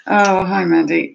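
normal talking voice

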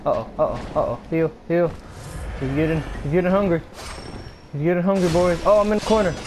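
increasingly high, urgent commentary; rising alarm. Real, not acted. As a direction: build alarm as you get trapped. Cornered by the game enemy.

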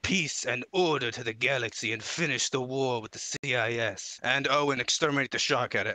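lightly voiced villain-politician blend; a hint of a pompous put-on emperor; Palpatine mixed with Donald Trump. Shown as a demonstration. Contestant pitching galactic rule to judges, mild Palpatine-Trump blend. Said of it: "Kinda like a Palpatine mixed with Donald Trump".

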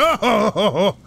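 forceful, pushed projection; pushed-out aggressive voice. Shown as a demonstration. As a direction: shove the sound out hard from the chest. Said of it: "that's why it always sounds so aggressive".

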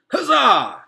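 loud, high, jubilant shout; triumphant cheer. A narrator's reading. Mister Beaver cheering the finished foot, loud and high. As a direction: cheer the victory.

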